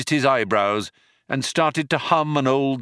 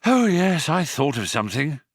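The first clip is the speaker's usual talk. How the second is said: panting between words; out of breath; 4 semitones higher than usual. Acted. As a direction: say it short of breath. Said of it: "panted Ford".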